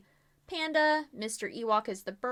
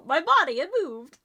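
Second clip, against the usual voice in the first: high, louder laughing outburst; 9 semitones higher, 6 dB louder than usual. Real, not acted. Player laughing that their dead body moved. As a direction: laugh through the words.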